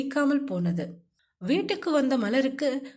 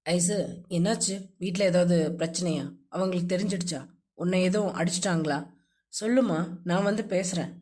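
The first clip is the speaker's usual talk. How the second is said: a hint of a lower, anxious man's voice; lightly voiced worried man; 7 semitones lower than usual. A narrator's reading. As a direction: rush out worried questions. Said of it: "அவன் தழுதழுத்த குரல்".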